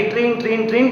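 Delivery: ringing "treen, treen" on a held tone; imitated bell ringing. Teacher describing the kite's bell in lightning, imitated ringing. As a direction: chime like a little bell. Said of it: "घंटी ... करने लग जाती".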